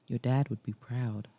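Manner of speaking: low, soft male voice; quietly sincere. A narrator's reading. Mason to Liza about her dad, sincere and quiet. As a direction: drop down soft and mean it. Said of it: "The sincerity in his voice".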